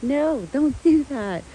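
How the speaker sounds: half-hearted stern yell at a dog; mock scolding yell. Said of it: "I yell at her".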